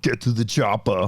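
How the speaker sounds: action hero impression with put-on accent; bark-free mock film catchphrase in a foreign accent; Arnie.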